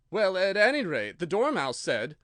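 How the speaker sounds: a hint of a nervous hatter thinking; hesitant Hatter. A narrator's reading.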